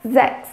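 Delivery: sechs starting with a Z sound, "zeks"; teaching pronunciation. Shown as a demonstration. Teacher models sechs with a buzzing Z. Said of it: "o S tem som de Z".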